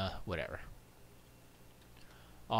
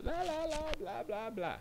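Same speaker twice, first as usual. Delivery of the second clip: very high, silly blah-blah voice; mock babble; 3 dB quieter than usual. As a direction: babble it high like filler talk. Mimics upcoming babble.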